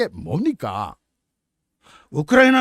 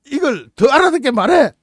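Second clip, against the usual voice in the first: barked mock order, higher and louder; mock command; 5 semitones higher, 4 dB louder than usual. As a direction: bark it like an impatient soldier.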